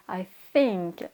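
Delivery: I think, tongue between teeth on TH; airy TH in think. Shown as a demonstration. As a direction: model think with a breath of air on TH. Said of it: "on sort un petit peu d'air". (think avec un TH soufflé)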